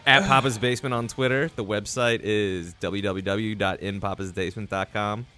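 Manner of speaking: mock radio host plug read; podcast announcer. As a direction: read the show credits like an announcer.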